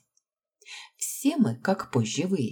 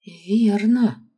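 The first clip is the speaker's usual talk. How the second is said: «Верно» higher and louder, falling at the end; through gritted teeth; 7 semitones higher, 7 dB louder than usual. A narrator's reading. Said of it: "процедила сквозь зубы Аманда".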